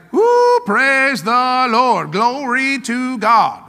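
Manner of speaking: slow, drawn-out joyful praise; joyful Jesus. Retold or imitated. Jesus at day's end, praising God, drawn-out joy. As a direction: stretch out each word in happy praise. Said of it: "I have no doubt Jesus was like".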